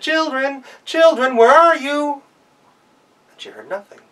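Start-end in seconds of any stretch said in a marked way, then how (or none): 0.0-2.2 high, loud frantic calling; mother goat panicking; worried mother. Acted. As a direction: call out desperately for the kids.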